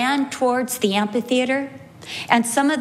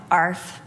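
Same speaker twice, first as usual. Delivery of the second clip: lazy bark; 6 semitones lower than usual. Retold or imitated. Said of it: "looked at me and went".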